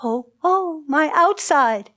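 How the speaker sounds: storyteller moaning as the suffering queen. A narrator's reading. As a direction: lift into an aching "oh, oh". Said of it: "She moaned".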